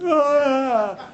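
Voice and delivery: a sudden high wailing "ah" with a laugh in it; mock the woman's blubbering cry; imitating blubbering. Retelling how the woman burst into tears, mock blubbering wail.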